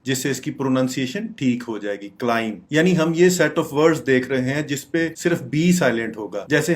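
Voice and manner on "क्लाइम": "क्लाइंब" ending on m; silent b. Shown as a demonstration. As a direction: say "क्लाइंब" as klaim. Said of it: "बी आप pronounce नहीं".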